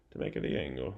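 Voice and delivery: put-on a slight Italian accent on "To make it the angle", the vowels rounded and sung; accidental Italian accent. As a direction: slip into a light Italian accent without meaning to. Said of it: "I don't know why that sounded Italian".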